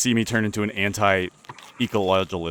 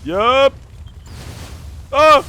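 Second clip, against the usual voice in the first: surprised; 8 dB louder than usual. Real, not acted. Startled during combat.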